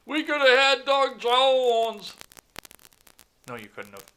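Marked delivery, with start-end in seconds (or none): 0.0-2.1 very high, loud and slow whining lament; mocking whiny Democrat. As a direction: ham up a wailing liberal voter.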